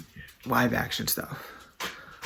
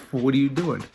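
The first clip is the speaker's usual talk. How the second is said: louder, mildly cross storyteller's quote; a touch of scolding, voice raised; mock mad; 2 semitones higher, 7 dB louder than usual. Brer Fox getting mad at Brer Bear, mildly angry raised voice. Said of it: "Basically getting mad at Brer Bear".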